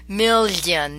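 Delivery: "million" with a lingering liquid ly in the middle; ly sound. Shown as a demonstration. Teacher comparing Italian GLI to English, ly sound. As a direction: stretch the lli of "million" into a palatal glide. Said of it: "that y sound".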